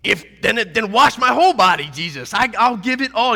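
high, loud, all-in exclamation; eager Peter. Acted. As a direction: throw yourself in completely. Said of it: "They're like".

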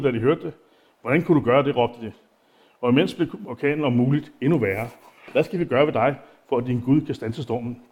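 unhurried reading of the text; Bible reading. Acted. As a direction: read the passage out to the congregation. Continues reading the Bible passage.

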